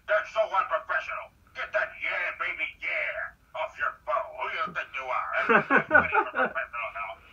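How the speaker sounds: put-on high, loud scolding old navy man; stern father-in-law. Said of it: "my father-in-law would be like".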